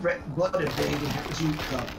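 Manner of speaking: fake ad voice. Improvised mock ad jingle.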